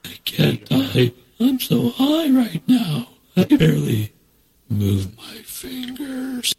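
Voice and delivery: slow, high stoned drawl; stoner. Acted. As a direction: play it wasted and giggly. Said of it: "Do that one again?".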